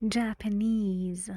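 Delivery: "Japanese" with the stress on NESE; "Japanese" said as japa-NESE; stress on last syllable. Shown as a demonstration. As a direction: lean on the final syllable of "Japanese". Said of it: "the last syllable, with ease".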